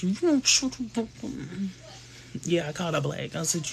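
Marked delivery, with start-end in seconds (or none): 0.0-1.1 mock high reply.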